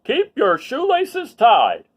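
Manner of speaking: loud, high and slow instruction; officer's safety tip. Acted. Officer Buckle giving a safety tip to the children, loud and slow. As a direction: lay down the rule slowly and loudly. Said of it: "gave safety tip number one".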